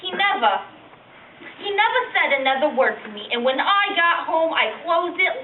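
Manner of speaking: put-on reluctant, embarrassed old lady reminiscing; old woman. Old lady telling a young interviewer about down there, embarrassed old-woman voice. Elderly woman's monologue after plain introduction.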